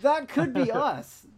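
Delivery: high, slow, dramatic trailer line. Pretend. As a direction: announce it like a film trailer. Dramatic trailer-style echo.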